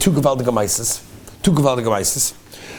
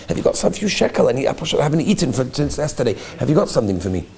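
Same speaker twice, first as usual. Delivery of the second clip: pleading beggar. Retold or imitated. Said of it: "the way he asked with such, such heart, such compassion".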